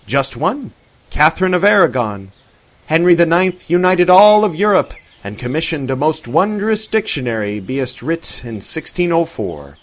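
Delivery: a hint of a jovial old-fashioned man; lightly voiced Arthur. A narrator's reading.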